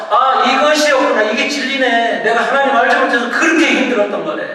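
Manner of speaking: loud, high cry of discovery; acted joyful realization. Preacher acting believer who met Jesus, excited realization.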